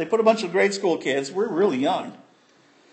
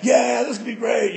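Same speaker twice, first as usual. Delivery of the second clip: excited friends; 4 semitones higher than usual. Retold or imitated. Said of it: "my friends were all like".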